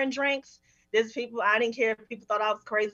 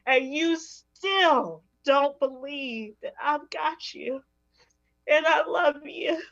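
loving scold; 3 semitones higher, slower than usual. Retold or imitated. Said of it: "my God coming down and saying".

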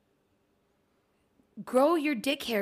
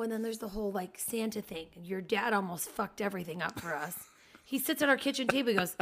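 ordinary talk, nothing marked

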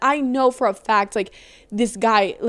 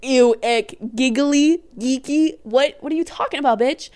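disgusted guy; 3 semitones higher, 6 dB louder than usual. Acted. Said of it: "he would probably be like".

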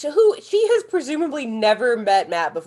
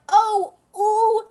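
high, slow, drawn-out yelps; imitating a slow-motion stunt fall, high; mock falling cries; 12 semitones higher, 5 dB louder, much slower than usual. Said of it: "And they're like".

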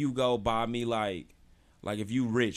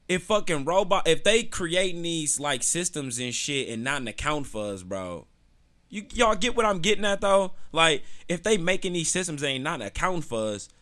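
heated rant; 4 semitones higher, 4 dB louder than usual. Real, not acted. Ranting about racist robots.

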